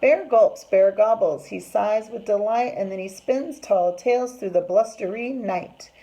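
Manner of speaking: rhythmic narration, loud start, slowing at the end; story reading to children. A narrator's reading. Teacher reads of bear joining the party, lively storytime narration. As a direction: read it with relish, stretching the last lines. Reads picture book aloud.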